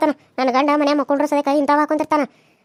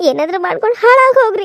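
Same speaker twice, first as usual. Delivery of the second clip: ಹಾಳಾಗ್ yelled loud and high; shouted curse; 3 semitones higher, 5 dB louder than usual. Acted. Wife shouts her parting curse at the family, loud. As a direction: fling the curse at full voice.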